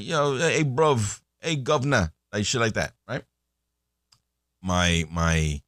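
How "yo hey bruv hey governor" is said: put-on lightly done South London accent, a bit higher; playful imitation of a South London girl's accent; mock South London accent. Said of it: "my British accent is impeccable".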